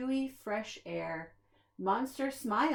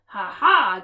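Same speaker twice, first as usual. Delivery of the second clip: mock laugh; 12 dB louder than usual. A narrator's reading. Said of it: "Grouch laughed".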